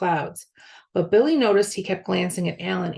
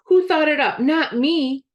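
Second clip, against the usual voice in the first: angry shouting; 8 semitones higher, 6 dB louder than usual. A narrator's reading. Alan shouting in argument.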